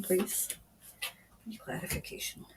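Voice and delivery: whispered to the unseen spirit. Real, not acted. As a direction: drop to an unvoiced whisper, as if asking privately. Medium asking spirit for clarification.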